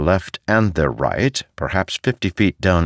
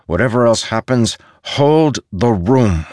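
firm command; 6 semitones higher, 4 dB louder than usual. A narrator's reading. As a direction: hold the line, every word a command. Adolin orders troops to hold.

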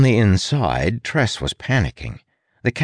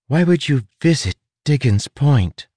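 higher-pitched insistent question; demanding; 8 semitones higher than usual. A narrator's reading. Prisoner demanding the rat's reason for visiting, insistent. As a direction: demand an explanation, pitched well up. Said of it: "Tress demanded".

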